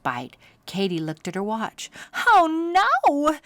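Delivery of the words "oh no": sharp high cry of alarm; alarmed yell. Acted. Katie noticing they are late, alarmed cry. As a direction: cry out in sudden dismay. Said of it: "she yelled".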